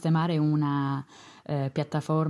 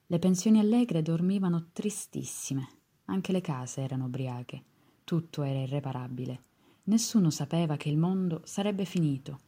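poetry reading. Acted. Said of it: "vi leggo una poesia".

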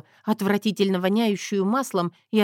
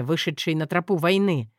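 plain reading voice

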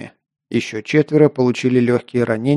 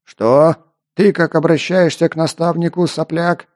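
higher, angry bark at the recruit; barking demon; 5 semitones higher than usual. Acted. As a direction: snap at him like a furious sergeant. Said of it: "рявкнул демон".

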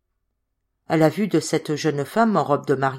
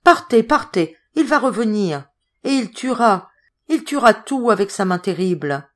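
frantic, raised pleading; distraught; 4 semitones higher, 4 dB louder than usual. Acted. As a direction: beg them to flee, voice rising. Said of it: "la voix de Zoé s'éleva éperdue". (voix éperdue, supplication affolée)

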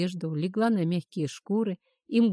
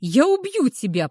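growled threat; 3 semitones higher, 6 dB louder than usual. A narrator's reading. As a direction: roar it as you chase her. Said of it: "прорычал он".

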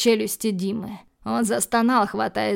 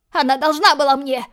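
loud, much higher squealing yell; shrill screech; 5 semitones higher, 6 dB louder than usual. Acted. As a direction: shriek it so they wince. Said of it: "заверещал придурок так громко".

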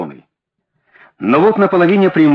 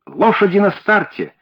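excited call, pitched higher; a half-hearted shout of alarm; 5 semitones higher than usual. Acted. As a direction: call out that the race is starting. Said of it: "закричал я".

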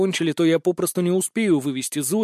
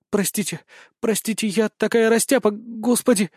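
flustered; 5 semitones higher than usual. Acted. Zoe flustered apology.

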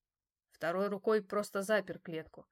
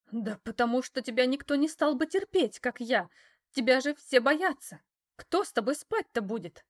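loud, higher, rising scorn; working herself up; 5 semitones higher, 7 dB louder than usual. A narrator's reading. Mistress getting carried away mocking the man. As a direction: let the taunts pour out louder and louder. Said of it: "разошлась она".

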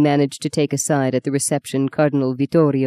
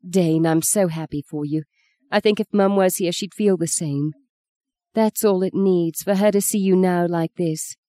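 shy tenderness. Acted. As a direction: say it shyly and kindly. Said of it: "looked at him almost shyly".

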